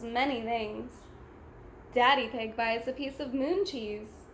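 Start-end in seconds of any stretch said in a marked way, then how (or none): none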